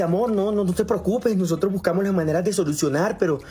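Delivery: leve voz aguda de mujer que consuela; amante consoladora. Retold or imitated. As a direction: consuela al novio con tono algo más agudo. (amante que consuela, voz un poco aguda)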